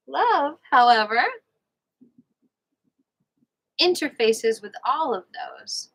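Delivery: measured audiobook-style reading; book read-aloud. Real, not acted. Host reads a relationship book to listeners, measured read-aloud. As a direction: read it out in careful, separate phrases.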